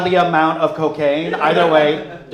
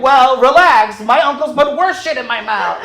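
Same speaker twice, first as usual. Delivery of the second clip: loud, high, indignant snap back; mock-defensive outburst; 9 semitones higher, 7 dB louder than usual. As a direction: bristle like you've been accused. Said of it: "I got real defensive".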